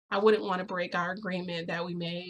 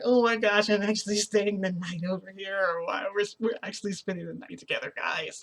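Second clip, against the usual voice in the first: gushing with mild excitement; excited. Retold or imitated. Girl thrilled to be staying the night over, excited. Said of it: "I'm getting excited 'cause I'm like".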